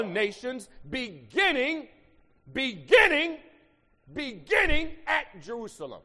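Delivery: reads it slow and builds to a loud, high climax; scripture read rising to a preached shout; fervent scripture reading building to a shout. Acted. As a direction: lift the verse until it rings out.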